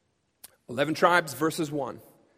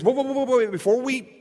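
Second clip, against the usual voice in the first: eager interruption; 2 semitones higher than usual. Retold or imitated. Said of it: "raises their hand and says".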